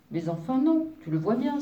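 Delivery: a touch of surprise in the objection; mild astonishment. A narrator's reading. Wolf answers the fairy on arrival, mildly astonished. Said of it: "s'étonna le grand loup".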